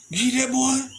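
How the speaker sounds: high Southern voice, imitating folks gossiping; a light Southern accent put on for the quote; Southern drawl. Southern folks marvelling at the swimmer, in a Southern accent. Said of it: "you know how Southern people talk".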